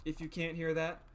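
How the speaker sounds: congested, blocked nose voice; talking through a stuffed-up nose. Real, not acted. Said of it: "I'm super congested today".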